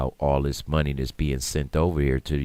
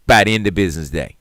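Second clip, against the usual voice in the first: faster and louder final vow; emphatic repeat; 7 dB louder, faster than usual. Retold or imitated. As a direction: slam the deadline home.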